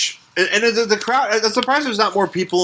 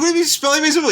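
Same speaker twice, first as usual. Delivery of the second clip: mock disbelief; 12 semitones higher, much faster than usual. Mock incredulous quote.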